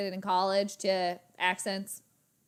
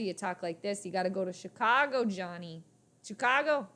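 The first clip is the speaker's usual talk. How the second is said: lightly attempted Chicago gangster accent; hint of old Chicago mobster; John Dillinger. Shown as a demonstration. Telling Johnny to go to Chicago, light gangster accent. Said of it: "like John Dillinger".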